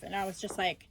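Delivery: ordinary talk, nothing marked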